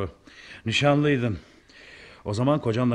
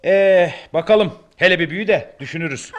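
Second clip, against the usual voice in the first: laughing; 8 semitones higher than usual. Acted. Old man teasing child, laughing.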